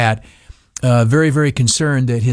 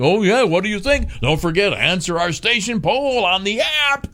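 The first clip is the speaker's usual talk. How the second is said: mock TV station; 7 semitones higher than usual. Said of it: "they kinda jerk us along saying".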